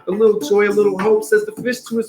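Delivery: lively singsong rhyme over a beat; rhythmic story reading. Acted. Reading Pout Pout Fish to the audience, rhythmic story reading. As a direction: read it bouncy, riding the rhythm.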